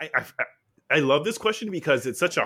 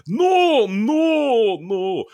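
loud, much higher panicked denials; mock panicked no, no, no; frantic no; 10 semitones higher, 8 dB louder, much slower than usual. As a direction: wave off the misunderstanding in a rush. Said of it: "he'd be like".

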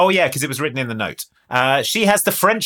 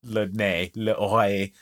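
low, soft mock-sultry French; flirty mock moan; 5 semitones lower, 6 dB quieter than usual. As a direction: murmur French words like a hammy flirt. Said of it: "sort of moaning and going".

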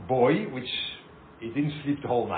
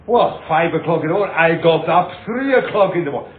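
mock indignation; 7 dB louder than usual. Acts the indignant rabbi.

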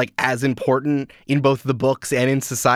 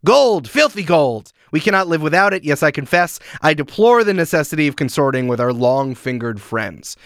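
sneering Death Eater. Retold or imitated. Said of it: "Travers says".

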